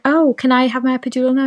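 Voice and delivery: high, pleading plea for the epidural. Retold or imitated. Mother in labour begging nurse for epidural, high pleading. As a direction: beg for it in a mock high voice. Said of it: "And I was like".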